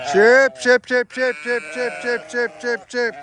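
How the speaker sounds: high, loud sing-song farm call; calling sheep. Real, not acted. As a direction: call the flock in from afar.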